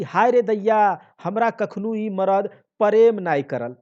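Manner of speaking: loud, high wailing lament; wife wailing loudly that she's unloved. Acted. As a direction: wail over her fate.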